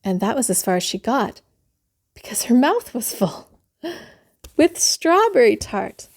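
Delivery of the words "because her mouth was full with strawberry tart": laughing while reading. Real, not acted. Reader laughs at the joke.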